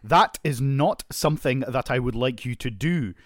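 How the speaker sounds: slowed-down Scottish with rolled R's; acted Scottish annoyance; angry Scottish. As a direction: roll the R's in a measured Scottish telling-off. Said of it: "I get, like, more Scottish".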